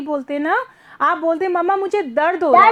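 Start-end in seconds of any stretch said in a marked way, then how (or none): 1.5-2.7 दर्द said fast, r slipped in quickly; quick natural saying. Shown as a demonstration. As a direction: run दर्द together fast like a child to mom. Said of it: "जल्दी से बोलते हो।". (बच्चे की तरह जल्दी से "मुझे दर्द हो रहा है")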